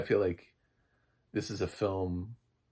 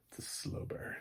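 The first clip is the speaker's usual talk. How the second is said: hushed complimentary; 10 dB quieter than usual. Shown as a demonstration. Reviewer showing how to say it as praise, hushed. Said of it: "how we say it complimentary".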